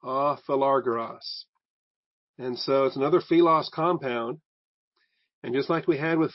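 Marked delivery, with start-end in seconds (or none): 0.0-1.4 A philagaros drawn out, ah fi-la-GAR-os; teacher repeating the Greek term slowly; slow Greek word. Shown as a demonstration. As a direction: lay out A philagaros slowly for the class. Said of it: "the very first word in the sentence".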